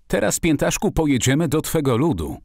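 high-pitched, eager announcement; calling out. A narrator's reading. Master announces the voyage to Friday by the canoe, calling out. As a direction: exclaim it brightly with pitch lifted. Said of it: "zawołałem".

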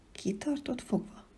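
a soft, cautious question. A narrator's reading. Child asking the creature carefully, hushed. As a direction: ask it carefully, barely aloud. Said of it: "kérdeztem óvatosan".

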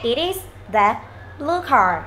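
even "it is the", voice falling on "car"; falling statement tune. Shown as a demonstration. Teacher showing statement intonation, drop on final "car". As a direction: let "blue car" sink at the end. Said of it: "cái giọng trầm xuống cuối câu này".

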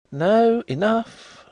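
embarrassed gentleman stops the butler, loud and high; hasty cry. Acted. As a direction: cut him off in alarm. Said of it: "cried the gentleman concerned hastily".

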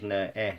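"ne-est" drawn out, the E held long; stretched vowel. Shown as a demonstration. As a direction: stretch the E in "ne-est" slowly for a child. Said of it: "this can be a E or A".

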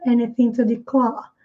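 non-rhotic British "declare"; British dropped r. Shown as a demonstration. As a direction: drop the r in "declare" and stretch the vowel, British style. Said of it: "Um pouco mais aberto esse A e o R".

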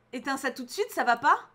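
ordinary talk, nothing marked

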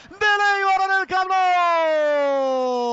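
stretched, shouted goal line; drawn-out shout. Acted.

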